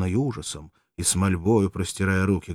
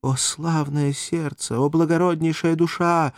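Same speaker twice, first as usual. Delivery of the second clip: higher, louder, slow start; agitated exclamation; 9 semitones higher, 3 dB louder than usual. Acted. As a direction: cry out moved. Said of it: "вскричала взволнованным голосом".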